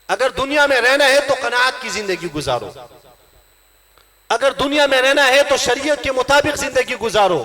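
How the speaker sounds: emphatic sermon exhortation; impassioned preaching. Real, not acted. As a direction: urge the congregation firmly. Preaches at full force.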